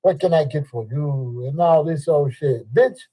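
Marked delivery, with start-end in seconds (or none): 0.0-1.5 shopkeeper greeting. Retold or imitated. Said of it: "If I come in the store".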